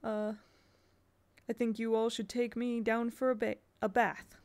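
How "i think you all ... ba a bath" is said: "bath" said as bath, plain ending; reading bath. Shown as a demonstration. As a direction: settle on "bath" with a short a. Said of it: "I'm gonna go with bath".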